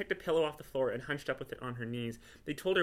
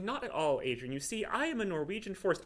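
cat character voice; 6 semitones higher than usual. Acted. Glenn the cat's voice.

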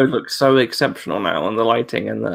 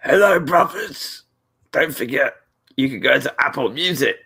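clone ad read. Retold or imitated. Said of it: "recording dialogue".

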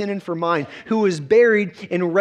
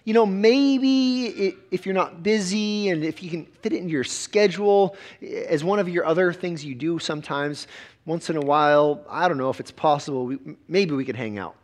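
casual invite. Retold or imitated. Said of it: "it's not like Jesus is saying".

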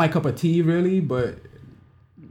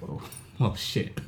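breathy whispered dismay; whispered oh shit; 6 semitones lower, 8 dB quieter, slower than usual. Retold or imitated. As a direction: whisper it under your breath. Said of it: "I was like".

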